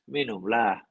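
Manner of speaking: relaxed, offhand invitation; just shrug it out kindly; casual, easygoing. Shown as a demonstration. Teacher shows the relaxed intonation of the command, easygoing. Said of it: "intonasinya sangat besar saja".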